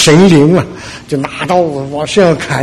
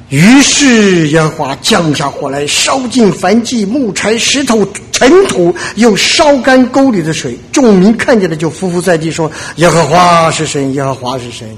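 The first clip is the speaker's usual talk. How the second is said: scripture reading. Shown as a demonstration. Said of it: "我给大家读一下".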